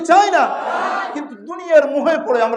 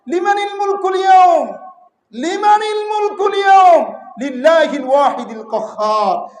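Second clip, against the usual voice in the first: thundering proclamation; 5 semitones higher than usual. Acted. Preacher voicing God's challenge on judgment day, thundering shout. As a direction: proclaim it like a king over all. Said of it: "চিৎকার দিয়ে বলবেন".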